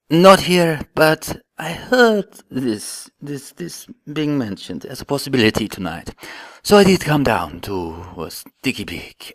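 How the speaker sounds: a hint of a vampire lord; Count character. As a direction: speak like a grand vampire count. Panel guest playing a count.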